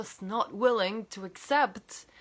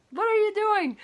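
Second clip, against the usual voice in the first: high, louder outraged question; indignant disbelief; 13 semitones higher, 6 dB louder than usual. Retold or imitated. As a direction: throw up your hands in outrage. Indignant at the director.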